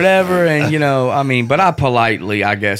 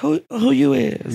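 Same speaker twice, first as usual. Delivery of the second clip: confused lady; 13 semitones higher, slower than usual. Retold or imitated. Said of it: "the lady at the line is like".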